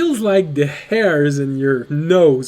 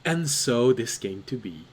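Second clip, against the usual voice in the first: chirpy half-sister; 4 dB quieter than usual. Acted. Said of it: "She looks at you and says".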